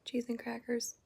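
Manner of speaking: hushed late-night whisper; soft whispered vlog chat. Real, not acted. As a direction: keep it to a whisper so nobody wakes.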